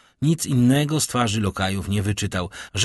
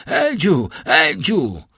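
high, loud, piercing calls; heart-rending shouting; 7 semitones higher, 6 dB louder, much slower than usual. A narrator's reading. Father running out shouting for his son, heart-rending cries. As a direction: cry the name out at full voice. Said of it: "Krzyczał tak rozdzierająco".

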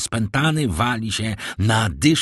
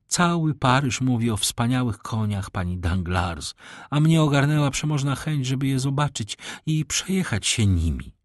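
higher, lightly voiced lady; lady confessing curiosity; 4 semitones higher than usual. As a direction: explain as a lady, pitch lifting as she goes. (lekko zagrana dama, wyższym głosem)

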